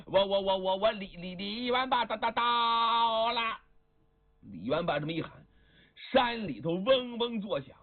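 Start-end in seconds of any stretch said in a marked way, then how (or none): 0.0-3.4 stammering shout. Acted. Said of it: "一边碰一边喊".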